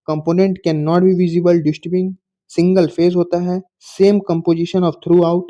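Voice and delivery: reading a definition out word by word, slowly; slow dictation. Shown as a demonstration. Teacher dictating a definition to the class, very slowly. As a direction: dictate it slowly so students can copy.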